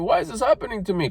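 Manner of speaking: mock self-pitying question; mock crying complaint. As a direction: lightly imitate someone wailing about their bad luck. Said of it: "that crying bullshit, blaming other people".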